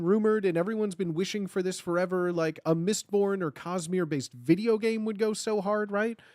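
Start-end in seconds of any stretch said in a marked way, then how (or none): none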